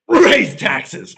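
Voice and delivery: high animal cry; animal impressions. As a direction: yelp it out. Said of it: "you know what sound that is".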